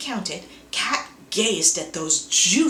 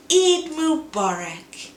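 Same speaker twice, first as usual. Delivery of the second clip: festive greeting; 8 semitones higher, 5 dB louder, slower than usual. Acted.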